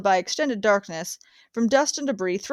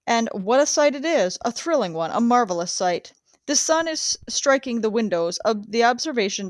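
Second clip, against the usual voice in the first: live radio commentary, eager and sweeping; radio reporter. Acted. Radio man describing the airship landing to listeners, live commentary. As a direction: paint the arrival for listeners at home. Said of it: "reporter for Chicago radio station".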